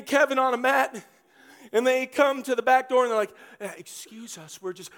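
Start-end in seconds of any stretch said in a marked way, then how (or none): 3.6-4.9 hushed, apologetic asking; soft sheepish excuse us; timid mumble. Acted. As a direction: sheepishly ask to be let in. Friends timidly asking at back door.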